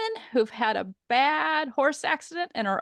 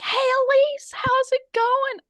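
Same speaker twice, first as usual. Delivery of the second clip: much higher, bright friendly hello, slowing on how's it going; cheerful boss greeting; 13 semitones higher, 4 dB louder than usual. Retold or imitated. Retelling how the CEO greeted her, imitated high cheerful hello. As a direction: play the CEO greeting her warmly in the elevator. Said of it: "he's like".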